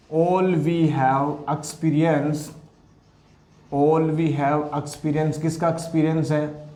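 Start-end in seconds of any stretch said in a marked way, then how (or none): 0.1-5.4 word by word, slowly; slow classroom dictation. Shown as a demonstration. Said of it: "dictating notes slowly".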